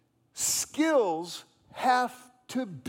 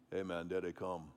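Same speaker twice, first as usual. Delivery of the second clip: hushed guide; 13 semitones lower, 12 dB quieter than usual. Retold or imitated. Guide quietly spotting fish.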